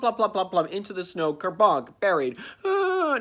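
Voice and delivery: ordinary delivery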